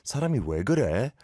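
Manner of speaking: a sighing "Ah, 진짜" then a very fast "사람이 왜 그래?"; fed up, sigh and then rattle off the complaint; exasperated. Shown as a demonstration. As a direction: sigh it out, then rush the question in annoyance. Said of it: "trying to be exasperated".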